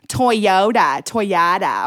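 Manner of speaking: light imitation of a Minnesotan O; Minnesotan accent. Daughter imitates how mom talks, Minnesotan accent. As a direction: say Toyota with a hinted Minnesotan vowel. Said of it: "she sounds like she is from Minnesota".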